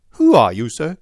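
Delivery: a hint of a testy old nobleman demanding answers; old lord challenging the detective, querulous and sharp; querulous old man. A narrator's reading. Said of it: "his voice had a sharp crackle".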